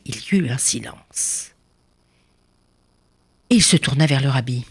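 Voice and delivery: ordinary delivery, nothing marked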